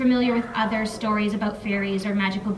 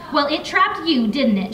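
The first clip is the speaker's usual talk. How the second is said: snapping; 4 semitones higher than usual. Acted. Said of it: "she snapped".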